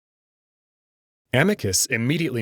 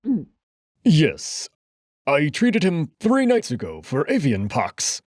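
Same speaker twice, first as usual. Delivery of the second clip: higher, anxious doctor's voice; nervous answer; 5 semitones higher than usual. Acted. Felix nervously answering the emperor. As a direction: get the answer out quickly, scared.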